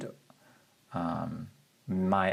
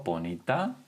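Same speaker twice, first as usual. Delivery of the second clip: ordinary delivery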